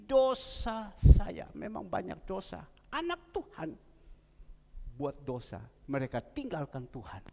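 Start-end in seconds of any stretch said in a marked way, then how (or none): 0.1-1.5 very slow, higher and louder, stretched out; desperate plea. Retold or imitated. Preacher voicing the husband's desperate cry for forgiveness. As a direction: wail the words out for mercy. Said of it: "Bahkan suaminya bilang".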